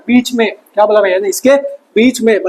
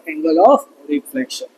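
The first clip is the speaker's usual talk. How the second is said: very slow, lower, teasingly stretched "Angle of reflection"; mock drawn-out answer; 6 semitones lower, 4 dB quieter, much slower than usual. Shown as a demonstration. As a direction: drag out "Angle of reflection" like a joke. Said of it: "मजाक कर रहा था". (धीमे, खींचकर मज़ाकिया अंदाज़ में)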